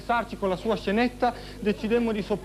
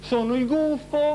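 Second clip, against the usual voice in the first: wolf voice; 5 semitones higher, slower than usual. Acted. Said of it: "Fai il lupo!".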